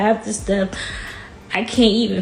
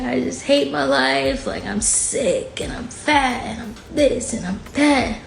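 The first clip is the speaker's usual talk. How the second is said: higher, drawn-out lament to an aunt; retold despair; 5 semitones higher, slower than usual. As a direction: list your miseries in mild, retold anguish.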